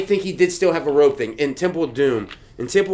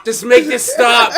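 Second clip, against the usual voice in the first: tag; 6 semitones higher than usual. Pretend. Acting out begging Arnold to stop.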